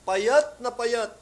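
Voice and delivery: payat na payat drawn out high and loud, very slowly; stretched emphasis. Real, not acted. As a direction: lean hard on payat na payat. Emphasising how thin she was.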